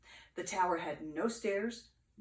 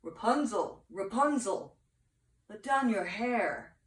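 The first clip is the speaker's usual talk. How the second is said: prince calling out; 2 semitones higher, 4 dB louder than usual. Acted. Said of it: "he called out".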